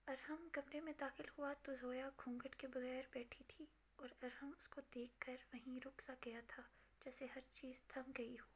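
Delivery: hushed, breathy storytelling read; intimate hushed novel reading. A narrator's reading. Reads romance novel narration.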